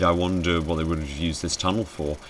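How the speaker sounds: ordinary talk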